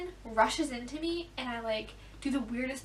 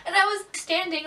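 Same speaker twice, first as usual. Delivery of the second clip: laughing; 6 semitones higher, 6 dB louder than usual. Real, not acted. Laughing while retelling.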